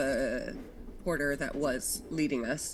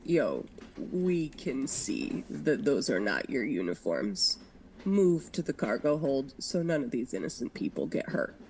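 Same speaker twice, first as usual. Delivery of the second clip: 1930s beat cop; 2 semitones lower than usual. Acted. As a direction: bark it like an old street cop. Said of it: "her good old cop voice".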